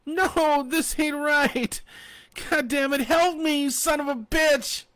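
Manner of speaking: high, loud cursing shout; angry shout. A narrator's reading. Fanny furiously shouting at the sheriff. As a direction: curse them out at full volume. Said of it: "Fanny shouted".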